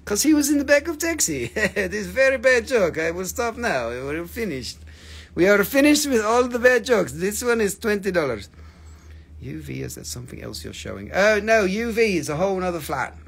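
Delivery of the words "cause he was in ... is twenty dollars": mock French accent over a bad joke; hammed-up foreign accent, broken English. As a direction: keep up the badly faked French accent. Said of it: "my French accent is very bad".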